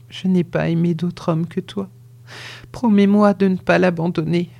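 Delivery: put-on dying woman swearing to her lover the child is his; faint dying plea. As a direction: swear it with the last of her breath. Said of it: "tant elle était oppressée et défaillante".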